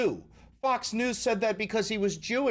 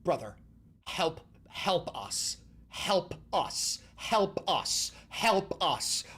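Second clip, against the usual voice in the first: pleading; much slower than usual. Real, not acted. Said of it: "for help".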